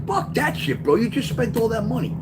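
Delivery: very high, strained outrage at the cheat; furious at being lied to over two dollars; angry retold yell. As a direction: throw it at him, pitched far up. Retold confronting Wayne about money.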